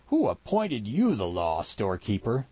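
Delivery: lightly voiced scornful mountain man; a touch of jeering disbelief; mocking challenge. Mountain man to armed storekeeper, lightly mocking challenge.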